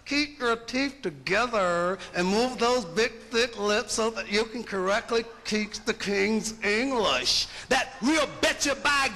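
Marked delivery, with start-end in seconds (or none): 0.0-7.5 mock standard English, slightly lower, over-enunciated; proper King's English. Lecturer mimics speech teachers drilling him, mock proper English. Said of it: "had speech pathologists and teachers trying to make us".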